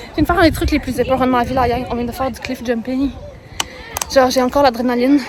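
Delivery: panting between words; breathless after jumping; out of breath. Real, not acted. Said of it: "à quel point je suis essoufflée".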